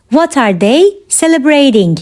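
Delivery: measured, separated phrases; careful teaching repeat. Shown as a demonstration. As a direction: pause after "they". Teacher repeats question for learners.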